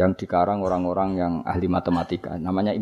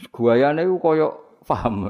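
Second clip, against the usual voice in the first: slow, raised, louder mocking drawl; 5 semitones higher, 4 dB louder, slower than usual. Preacher mocks people acting as if they understand, slow and louder. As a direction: stretch it out to mock their show of knowing.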